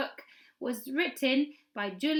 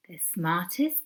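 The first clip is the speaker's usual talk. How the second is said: whispered title; 4 semitones lower, slower than usual. Acted. Title read for suspense.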